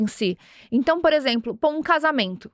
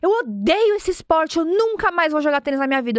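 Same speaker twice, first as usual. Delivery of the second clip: half-hearted mock tantrum of a sore loser; imitating an angry boy swearing off tennis; angry kid; 4 semitones higher than usual. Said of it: "ele saiu bravo".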